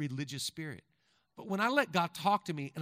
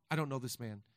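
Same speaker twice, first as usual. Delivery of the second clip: normal talking voice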